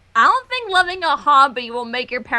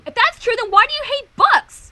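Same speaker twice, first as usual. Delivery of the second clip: mock-wounded Twilight; 8 semitones higher than usual. Twilight's dramatic accusation.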